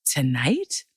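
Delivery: slow, shocked question; stunned disbelief. Retold or imitated. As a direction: let the shock stretch the words out slowly. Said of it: "Georg just blanched".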